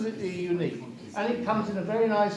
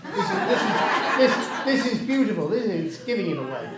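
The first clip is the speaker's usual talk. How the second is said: laughing; 4 dB louder than usual. Real, not acted. Auctioneer laughs over low bid.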